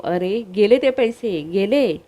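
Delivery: understated angry outburst. Acted. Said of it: "रागानेच म्हणतो".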